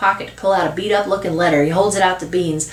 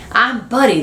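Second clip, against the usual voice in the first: put-on pitched-up small boy; little boy interjecting; 4 semitones higher, 3 dB louder than usual. Little boy butting in to introduce himself, eager. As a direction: pipe up like a little kid. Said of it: "the little boy interjects".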